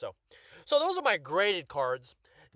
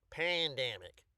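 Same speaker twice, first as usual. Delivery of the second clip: "pandemic" in a drawled accent, both a's wide; drawn-out accent; slower than usual. Shown as a demonstration. Trying out the word for viewers, accented. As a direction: stretch "pandemic" as PAN-DAM-ic in an accent. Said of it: "I say it with an accent".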